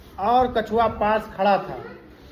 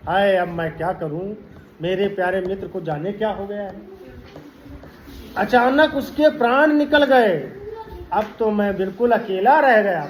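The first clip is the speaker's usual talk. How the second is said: mock lament; 2 semitones lower than usual. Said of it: "क्यों रो रहे हो?".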